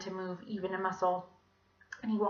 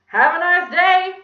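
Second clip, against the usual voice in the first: put-on high, loud, drawn-out child's voice; exaggerated piping schoolgirl farewell; Kathy; 10 semitones higher, 17 dB louder than usual. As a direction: call out a singsong goodbye as a kid. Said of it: "said Kathy's voice".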